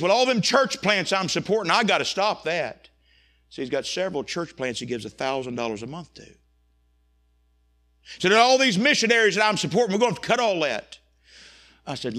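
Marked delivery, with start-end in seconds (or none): 0.0-11.0 louder, higher panicky businessman; panicked cutting. Retold or imitated. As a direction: blurt out cuts in a panic.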